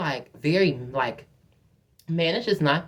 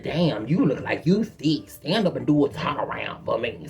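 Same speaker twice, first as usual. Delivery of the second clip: flirting stranger; 4 semitones lower than usual. Retold or imitated. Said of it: "So he's like".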